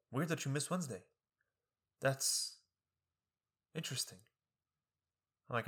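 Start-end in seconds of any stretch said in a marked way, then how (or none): 0.1-4.2 dry professor impression. Student mocking professor's puzzled muttering over late lab. Imitating professor, quiet, far.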